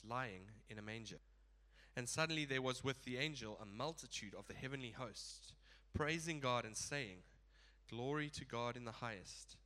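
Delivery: steady, measured Bible reading to the congregation; scripture reading. Acted. Pastor reads Luke two to the church, measured and clear. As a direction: read the nativity passage out with care.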